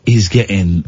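hammed-up French accent; English with a comic French accent. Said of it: "my French accent".

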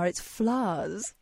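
"flowers" медленно, с нарочитой правильностью; posh correction. Retold or imitated. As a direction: drawl "flowers" slowly, like a prim correction. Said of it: "Actually, Grandma".

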